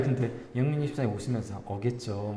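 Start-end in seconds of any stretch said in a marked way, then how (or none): 1.7-2.3 easy, quiet and unbothered; relaxed. Retold or imitated. Deacon Yeongmin, smiling and relaxed about the late pair. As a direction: say it softly with no worry. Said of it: "너무 여유롭게".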